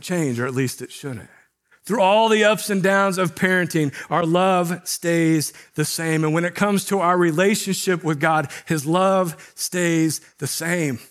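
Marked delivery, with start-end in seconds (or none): 4.1-6.2 slow emphasis. Real, not acted. Sermon emphasis on love. 8.7-11.0 slow emphasis. Real, not acted. Sermon emphasis on love.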